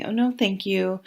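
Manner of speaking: lightly voiced gentle no thanks; calm polite decline. Reader to viewers, showing a calm refusal, gently polite. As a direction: turn them down kindly and easily. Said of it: "if you just calmly just say".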